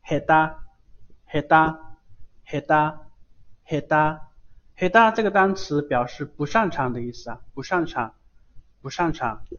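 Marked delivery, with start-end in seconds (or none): 0.0-4.3 嘿哒 with t sounding like d; no puff of air on 哒 in 嘿哒; evenly drilled 嘿哒, unaspirated second syllable. Shown as a demonstration. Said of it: "它是不送气".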